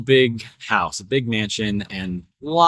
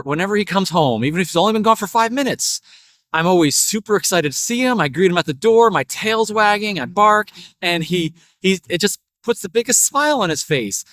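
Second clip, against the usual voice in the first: lightly voiced eager dog, building higher; boastful dog; 3 semitones higher than usual. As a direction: let the dog's excitement build a little. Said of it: "And the dog goes".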